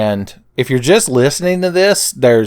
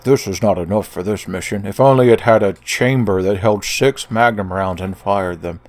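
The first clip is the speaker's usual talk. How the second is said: lightly put-on character voice; acted character quote; 3 semitones lower than usual. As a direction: play a hint of a grave gunman. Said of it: "He was like".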